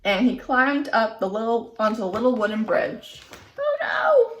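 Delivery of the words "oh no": alarmed oh no. A narrator's reading. Narrator exclaims alarm.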